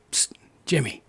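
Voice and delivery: imitating a hushed whisper from behind the props; a soft, breathy whisper to catch Jimmy's attention; retold whisper. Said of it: "and he's going".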